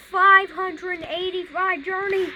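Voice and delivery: high, loud and drawn out; surprised exclamation. Real, not acted. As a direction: stretch it out in disbelief. Disbelief at a game number.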